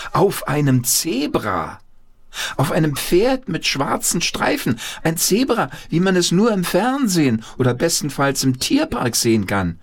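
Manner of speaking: building excitement. A narrator's reading. Narration building excitement about zebra.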